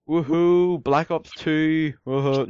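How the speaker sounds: sarcastic cheering. Pretend. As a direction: fake excitement, dragging the words out. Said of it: "That's sarcasm".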